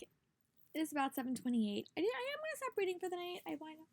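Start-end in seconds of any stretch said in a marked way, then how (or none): 2.1-3.9 hiccuping mid-sentence; talking through hiccups. Real, not acted. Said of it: "sorry, I have the hiccups".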